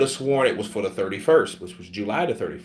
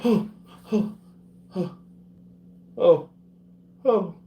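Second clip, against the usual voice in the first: mock shock; 10 semitones higher than usual. Reacting to deadly diagnosis joke.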